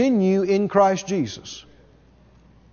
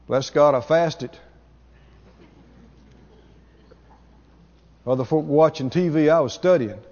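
lower, self-satisfied bragging voice; mocking a boastful preacher; 5 semitones lower than usual. Preacher mocking a self-praising minister, lower smug boast. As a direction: brag about your own hard work, lightly mocked. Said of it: "Why would you talk like that?".

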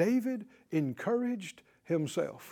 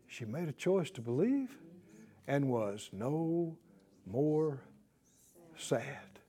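much softer, slow hushed ending; 7 semitones lower, 11 dB quieter, slower than usual. Real, not acted. Preacher telling her turnaround, hushed fade. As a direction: let it fade almost to nothing.

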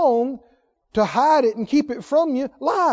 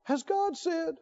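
defiant question; 6 semitones higher, 11 dB quieter, slower than usual. Retold or imitated. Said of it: "This is a defiant".

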